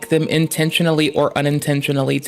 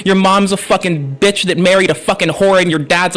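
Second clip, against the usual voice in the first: angry rant. Real, not acted. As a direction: tear into them nonstop. Ranting insults at coercers.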